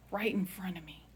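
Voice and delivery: "Right in front of me" repeated as a soft whisper. Shown as a demonstration. Telling her family, she whispers "Right in front of me". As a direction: let "Right in front of me" fall to a hushed breath. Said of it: "is right in front of me".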